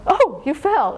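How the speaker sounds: light, playful exclamation. Retold or imitated. Thai parents to a fallen toddler, light playful exclamation. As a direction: exclaim it lightly, making nothing of the fall. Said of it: "and start laughing".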